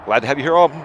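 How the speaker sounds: overdone smooth broadcaster welcome; fake announcer voice. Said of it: "I use my real voice".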